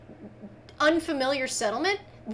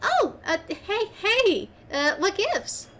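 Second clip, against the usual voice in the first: higher, flustered protest; flustered cookie; 6 semitones higher, slower than usual. Acted. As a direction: pull back startled. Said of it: "cookie leans away".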